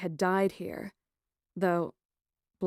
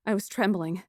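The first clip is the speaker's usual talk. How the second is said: plain reading voice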